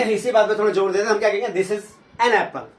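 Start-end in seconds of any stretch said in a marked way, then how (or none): 1.6-2.7 "an" as a full en, slow; slow and deliberate on "an"; stressed an, slow. Shown as a demonstration. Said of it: "इसे थोड़ा stress करें".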